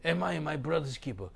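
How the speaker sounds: a light hint of Cain's sneer; mocking Cain. Preacher quotes Cain again, barely voiced. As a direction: read it as Cain's careless question. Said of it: "He speaks strangely".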